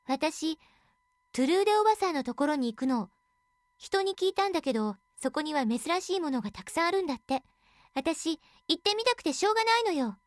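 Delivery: put-on bright, eager young girl; a willful girl begging to go; spoiled girl voice. Narrator voices the selfish girl.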